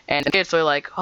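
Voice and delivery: ordinary delivery, nothing marked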